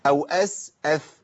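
reverse the drill, "as" then "ath"; sin then tha. Shown as a demonstration. Teacher reversing the exercise, slowly "اس" then th. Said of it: "الاول تحت لو في السين".

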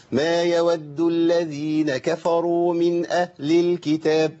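أهل said with a hamza-like catch on the ha; added hamza on ahl. Shown as a demonstration. Teacher showing a faulty recitation of أهل. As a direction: read slowly, catching the breath at أهل. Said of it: "أنا عملت إيه كده؟".

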